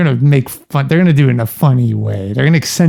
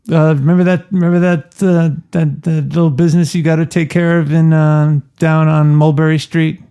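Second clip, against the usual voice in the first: lightly voiced Godfather; 2 semitones higher than usual. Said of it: "that was for The Godfather".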